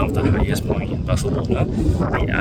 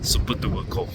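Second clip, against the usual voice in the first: shivering. Real, not acted. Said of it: "I'm actually shivering right now".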